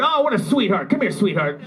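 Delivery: mock fawning over a kitty; imitated cooing to a cat. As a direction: coo over a pet, hammed-up.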